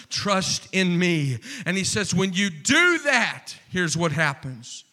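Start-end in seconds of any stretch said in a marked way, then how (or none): 0.1-1.4 echo. Pretend. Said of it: "I hear an echo".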